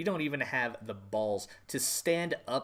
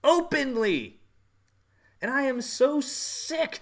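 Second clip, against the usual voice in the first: indignant shout; 12 semitones higher, 6 dB louder, slower than usual. Real, not acted. Angry rant, repeated word.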